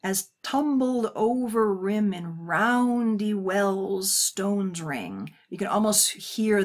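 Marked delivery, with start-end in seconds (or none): 0.0-5.3 slow evocative reading. Acted. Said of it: "picture now".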